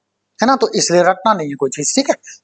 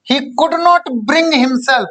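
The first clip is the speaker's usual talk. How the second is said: very slow, word by word, for students to write down; teacher dictating at writing speed; slow dictation; 3 semitones higher, much slower than usual. Shown as a demonstration. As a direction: spell out the sentence slowly as if the class is copying it. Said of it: "dictating the example sentence".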